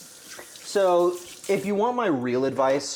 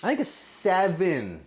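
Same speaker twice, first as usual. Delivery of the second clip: unsure rating; 5 semitones higher, slower than usual. Real, not acted. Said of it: "I said it like I'm not confident".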